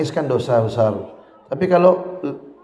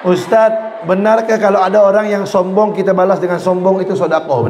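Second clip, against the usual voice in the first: student voice; 4 semitones higher, 4 dB louder than usual. Retold or imitated. Student voiced asking ustaz.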